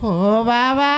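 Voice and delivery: hammed-up child's sob; mock crying. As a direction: fake sob on "বাবা". Boy cries to father.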